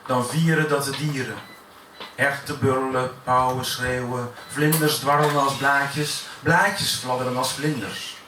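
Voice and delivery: rhythmic verse reading, refrain falling away at the end; poetry recitation. Acted. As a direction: recite in measured, rolling lines.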